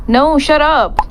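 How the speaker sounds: sharp whispered hush, pitch up; urgent hush. Real, not acted. Gamer whispering to the game to shut up. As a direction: hiss it out in a panicked whisper.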